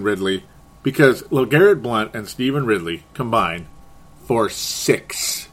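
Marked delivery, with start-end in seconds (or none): 4.3-5.5 laughing. Real, not acted. Laughing through football stat.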